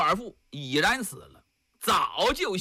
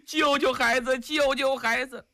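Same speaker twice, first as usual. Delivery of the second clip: pleading mother; 5 semitones higher than usual. Acted. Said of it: "给大家直磕头啊".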